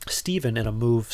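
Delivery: words stretched by a yawn. Real, not acted. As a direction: say it mid-yawn. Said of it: "sorry, I yawned".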